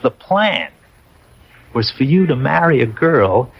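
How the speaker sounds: slow, lightly voiced self-important clerk; fussy clerk. Dead clerk reading the returning soldier his orders, slow and prim. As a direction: spell out the verdict slowly, like a fussy official. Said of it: "self-important".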